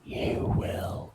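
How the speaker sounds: whispering. Acted. Whispered banter continues.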